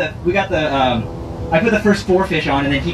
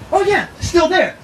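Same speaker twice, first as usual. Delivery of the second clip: high, drawn-out retold quote; excited buddy, pitched way up; imitated excitement. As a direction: act out the partner fighting a fish. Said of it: "he's like".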